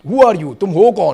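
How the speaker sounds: loud, challenging demand; demanding shout. Retold or imitated. Ali confronting the plainclothes men, loud and demanding. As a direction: call them out hard. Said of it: "ایک ہی بات کہہ رہا تھا".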